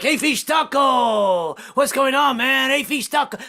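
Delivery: high, slow, far-off shouted greeting; Mexican waiter greeting. Retold or imitated. Restaurant staff calling out to a regular, hailing him. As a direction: call it out like a waiter across the room. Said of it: "They're like".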